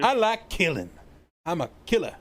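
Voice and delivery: a hint of a gleeful killer; unhinged villain. Echoes the unhinged impression.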